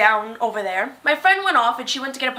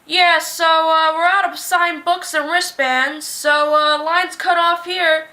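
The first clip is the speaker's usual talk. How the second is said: louder, slow staff voice calling out the end of the line; staff cutoff announcement; 3 semitones higher, 3 dB louder than usual. Retold or imitated. Worker announcing to the crowd that the books ran out, loud and slow. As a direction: call the line closed. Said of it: "all of a sudden we hear this".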